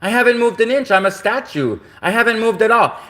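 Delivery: acted-out objection, pitch climbing; indignant protest. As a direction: plead your case in disbelief. Acted protest to police officer.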